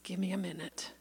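breathy whisper, no voice. Retold or imitated. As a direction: whisper it like you can barely speak. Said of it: "He said".

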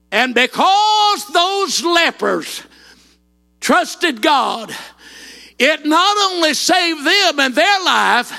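preaching at full force. Acted. Preacher proclaiming God's power to the congregation, shouting. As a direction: preach it out, drawing each word long.

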